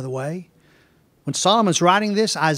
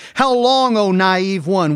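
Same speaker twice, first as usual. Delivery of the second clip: Wisdom calling out; 5 dB louder, slower than usual. Acted. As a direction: call out reproachfully as Wisdom in the street. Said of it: "wisdom shouts from the streets".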